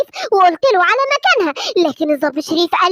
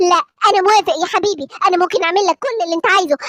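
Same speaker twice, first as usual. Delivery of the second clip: lower, friendly grown-up hero voice; a friendly Batman promising toys, pitched lower; 3 semitones lower than usual. Acted. Batman offering to make clay cars for Simba, lower friendly voice.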